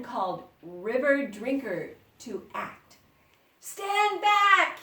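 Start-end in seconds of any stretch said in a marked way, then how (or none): 3.6-4.8 loud, high warning shout; sharp commanding shout. A narrator's reading. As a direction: order them back with a shout. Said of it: "he shouted".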